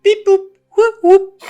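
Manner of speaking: very high, loud robot beeps and whoops; toy robot voice. Pretend. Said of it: "that is my attempt".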